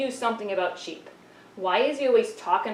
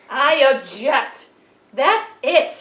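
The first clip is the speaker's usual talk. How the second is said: indignant objection; 3 semitones higher, 7 dB louder, slower than usual. Acted. Puppet sheep interrupts the lesson.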